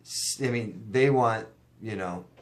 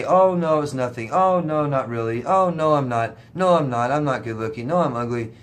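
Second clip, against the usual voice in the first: whiny self-deprecating; 2 semitones higher, 4 dB louder than usual. Retold or imitated. Mocking self-put-down reply to compliments.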